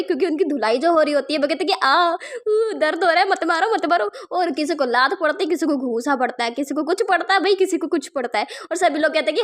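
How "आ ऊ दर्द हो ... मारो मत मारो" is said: higher, hammed-up yelps of pain; imitating a thug crying out in pain; mock pain cries. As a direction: play a beaten thug begging, half-hearted. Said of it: "वो चिल्ला रहे होते हैं".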